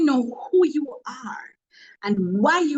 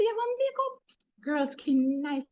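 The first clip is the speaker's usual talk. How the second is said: gushing compliment; 4 semitones higher, 5 dB quieter than usual. Retold or imitated. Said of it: "And I said".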